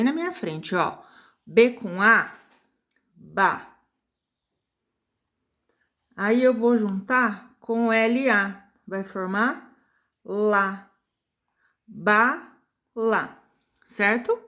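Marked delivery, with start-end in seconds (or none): 1.4-13.4 "Ba, lá" separado e marcado; sílabas destacadas. Shown as a demonstration. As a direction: junta as sílabas devagar. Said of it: "Eu vou fazer uma aqui". (professora demonstrando "Ba, lá" sílaba por sílaba)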